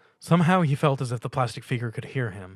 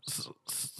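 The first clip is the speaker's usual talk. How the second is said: small peep; 13 dB quieter than usual. A narrator's reading. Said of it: "a small peep".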